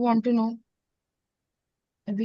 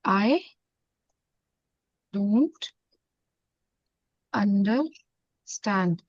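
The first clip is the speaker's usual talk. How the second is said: slow, drawn-out translation; 3 semitones lower, 3 dB quieter, much slower than usual. Shown as a demonstration. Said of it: "ça signifie".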